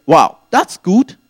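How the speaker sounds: drawn-out, loud wow of delight. Retold or imitated. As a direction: savour the lucky offer. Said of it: "And I say".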